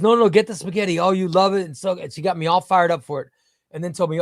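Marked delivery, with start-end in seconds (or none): 0.0-1.7 louder, a touch higher insistent wife; lightly voiced wife insisting on spaghetti; imitating wife. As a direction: press it like a coaxing wife. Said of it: "she goes".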